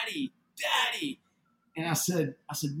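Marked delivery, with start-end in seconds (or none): 0.1-1.2 put-on high-pitched child calling Dad; imitating young daughter. Daughter at the window calls her father, imitated high child voice. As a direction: call out high, imitating a little girl. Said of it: "she says".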